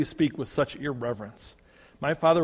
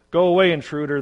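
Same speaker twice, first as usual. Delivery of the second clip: loud, higher, forceful order; loud demand; 5 semitones higher, 10 dB louder, faster than usual. A narrator's reading. Savages at the window shouting the brother away. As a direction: drive the intruder off. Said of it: "they demanded".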